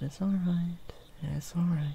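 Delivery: soothing whisper. Acted. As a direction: hush a frightened lamb in a whisper. Soothing a frightened lost sheep.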